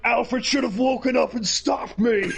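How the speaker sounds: high, put-on petulant cry; hammed-up high whine; whiny Batman impression. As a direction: imitate a big baby blaming someone else. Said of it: "he's like".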